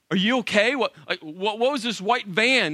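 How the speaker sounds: mildly hammed-up worry, stumbling over the questions; panicked. Husband questioning wife about the white van, panicked. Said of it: "I'm in full-fledged panic mode".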